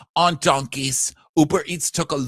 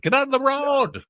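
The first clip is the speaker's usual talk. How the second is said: high yelled road rage; mock driver yell; 13 semitones higher than usual. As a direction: yell at her from the car. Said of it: "It's like".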